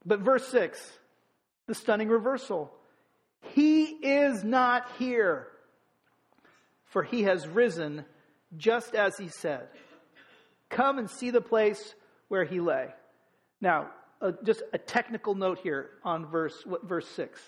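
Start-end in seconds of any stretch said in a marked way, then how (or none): 3.5-12.9 solemn reading. Acted. Reading the angel's announcement.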